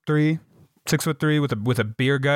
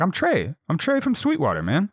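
high-pitched tipsy insistence; imitated drunk; 6 semitones higher than usual. Drunk stranger introduces himself to Scotty, imitated drunk pleading. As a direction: insist on your name like a wasted guy. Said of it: "he's wasted drunk".

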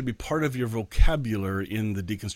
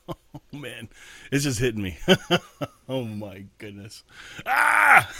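real laughing, with a sudden loud cry; overwhelmed laughter; 2 semitones higher, 5 dB louder than usual. Real, not acted. Preacher moved by his own sermon, laughing and crying out. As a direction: laugh it off, overcome.

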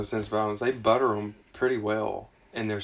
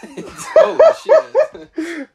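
cracking up, higher and louder, slow; real laugh at a dark word association; 10 dB louder, much slower than usual. Real, not acted. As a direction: let it burst out mid-laugh. Bursting out laughing at the answer.

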